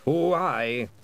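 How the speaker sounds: put-on a proud old Scot, curt; old Scottish piper. A narrator's reading. William the Gonagle voice.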